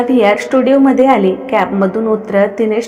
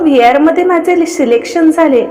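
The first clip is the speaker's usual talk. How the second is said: excited; 5 semitones higher than usual. Acted. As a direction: burst out the news to a friend. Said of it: "Veena excite होत बोलली".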